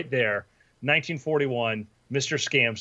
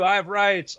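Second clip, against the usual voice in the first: high panicked rights; 6 semitones higher, 4 dB louder than usual. Retold or imitated. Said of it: "you're like".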